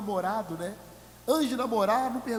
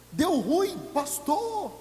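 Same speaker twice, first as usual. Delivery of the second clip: higher, whiny complaint; mock whine; 7 semitones higher, much slower than usual. Member complaining to the pastor, mock whine. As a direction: play the member who messed up.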